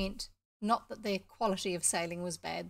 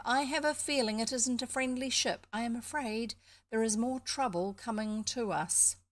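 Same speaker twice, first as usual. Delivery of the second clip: uneasy duck; 2 semitones higher than usual. Acted. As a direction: give a hint of an anxious duck raising a warning. Uneasy duck warns of trouble.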